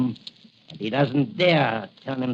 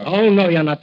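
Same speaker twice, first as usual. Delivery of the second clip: sharp loud stop; 3 semitones higher, 7 dB louder than usual. Acted. Villain stops escaping doctor.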